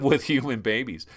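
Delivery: ordinary delivery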